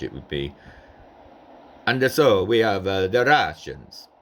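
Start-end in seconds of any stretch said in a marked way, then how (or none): 1.9-4.1 Napoleon with a light Italian accent; a hint of an Italian emperor. Shown as a demonstration. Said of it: "Napoleon would have had an Italian accent".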